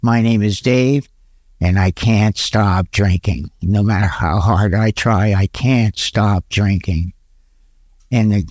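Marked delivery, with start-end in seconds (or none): 0.0-7.1 simple low admission, no drama; matter-of-fact confession; no self-pity. Retold or imitated. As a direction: state it low, without any crying. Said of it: "I didn't go into a crying".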